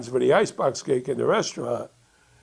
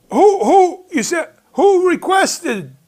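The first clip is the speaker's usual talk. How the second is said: stunned question; 8 dB louder, slower than usual. Retold or imitated. Tony asks in shock.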